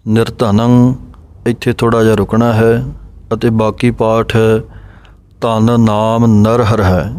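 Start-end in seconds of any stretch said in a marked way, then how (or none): 5.4-7.1 ਧਨ ਨਾਮ ਨਰਹਰ ਹੈ recited slowly and evenly after a pause; measured, careful reading of the line; slow model recitation. Shown as a demonstration. Teacher reciting the line slowly for students to follow. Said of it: "ਇਸ ਤਰ੍ਹਾਂ ਬੋਲਣਾ ਹੈ".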